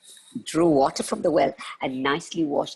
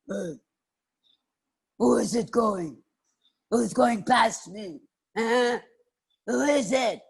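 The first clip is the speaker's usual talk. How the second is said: higher-pitched questioning bear voice; challenging bear; 7 semitones higher than usual. Acted. Bear challenging a passer-by, suspicious. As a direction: demand to know who is passing. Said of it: "asked the bear".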